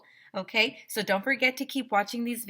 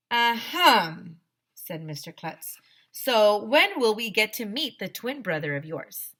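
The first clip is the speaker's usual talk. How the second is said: put-on lively read-aloud to children; children's book read-aloud voice; story narration. A narrator's reading. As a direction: read the story to a class, playing the characters.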